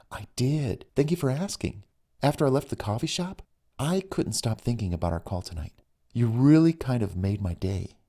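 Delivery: lightly voiced woman. Female character voiced in story.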